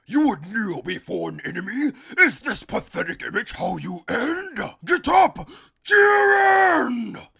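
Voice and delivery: rising to a high, loud shout; Toppo yelling. Retold or imitated. Toppo to his kneeling god, rising shout. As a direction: build from a plea to a full shout. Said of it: "He yells to Jiren".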